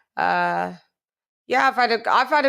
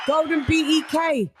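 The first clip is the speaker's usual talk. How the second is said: hype shout-out; 5 semitones higher than usual. Real, not acted. Hyped roll call shout.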